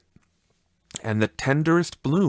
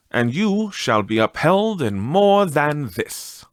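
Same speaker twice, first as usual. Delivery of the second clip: ghostly spirit voice; 6 semitones higher than usual. Acted.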